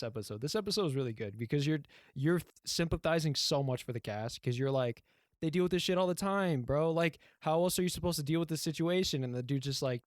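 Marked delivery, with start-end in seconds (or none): 5.4-9.3 raised, incredulous mock outburst; exasperated sympathy. Viewer sympathizing with the cast, mildly hammed-up exasperation. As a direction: protest on their behalf, higher pitched.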